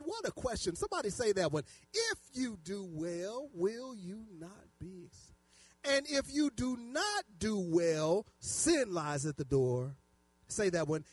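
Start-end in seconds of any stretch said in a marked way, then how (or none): 1.9-10.0 slow, deliberate Bible verse; preacher reading with drawn-out words; scripture reading. Acted. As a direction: spell out the verse for all to follow. Reads scripture aloud to congregation.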